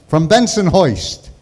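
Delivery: put-on slow, broad Brooklyn accent. Naming uncle's neighborhood in his own Brooklyn accent. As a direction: draw out the Brooklynese vowels. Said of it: "he spoke like that".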